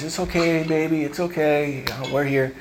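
imitating a father softly comforting his baby; hushed, gentle reassurance for a crying newborn; soothing father.

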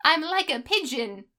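high, slow, dreamy silliness; mock airhead women. Mocking women written as idiots, high slow airhead voice. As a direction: play a vacant airhead, drawing it out high. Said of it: "Just idiots who have never read a newspaper".

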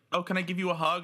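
put-on high-pitched sweet request to a child; mock cooing grown-up; cooing adult. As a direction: coax a little kid, voice way up. Voices adult asking child for hug.

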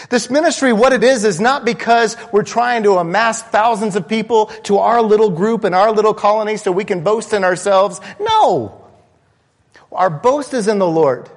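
full-force preaching. Acted. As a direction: build to a ringing no. Preaching climax.

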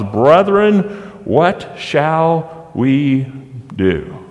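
high cry of Brethren, then slow, stretched what shall we; pleading crowd. Acted. The pierced crowd pleading to Peter, crying out high and slow.

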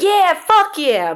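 high, slow, drawn-out pumped cheer; mock hyped cheer. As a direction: play an overexcited fan pumping a fist. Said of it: "they might be like".

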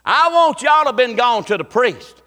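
high, loud preaching voice as Jesus giving orders; voicing Jesus. Preacher voicing Jesus to the ten lepers, loud and high. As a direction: proclaim it like Jesus sending the lepers off. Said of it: "Jesus, like".

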